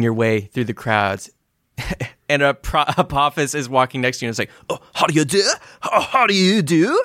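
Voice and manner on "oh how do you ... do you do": higher, prim how-do-you-do; a prim gentleman greeting passers-by; genteel greeting. Acted. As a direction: greet the crowd like a dandy. Apophis voiced greeting crowd.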